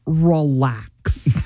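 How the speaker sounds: mildly sarcastic, drawn-out relax; slow relax with a touch of sarcasm. Retold or imitated. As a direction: imitate a husband's condescending relax. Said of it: "a, a sarcastic".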